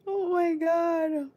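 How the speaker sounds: high, drawn-out squeal after laughing; slow, high wail at the end of a giggle fit; overcome with laughter. Real, not acted. Streamer recovering from the leprechaun joke, overcome with laughter.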